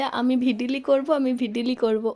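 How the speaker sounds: slowly imitating the child saying ভিডিলি instead of ভিডিও; toddler mispronunciation. Mother imitating her toddler asking to make a video, slow childlike mispronunciation. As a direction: say ভিডিলি with an l sound, slow like a little child learning to talk. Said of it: "ও এখনও উচ্চারণটা পরিষ্কার হয়নি".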